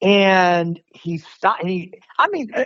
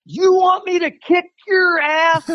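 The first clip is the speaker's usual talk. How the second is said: mock threat; 9 semitones higher than usual. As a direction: bark it like the furious guy in the road. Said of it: "he turns around and he goes".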